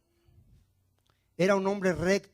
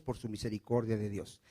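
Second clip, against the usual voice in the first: normal talking voice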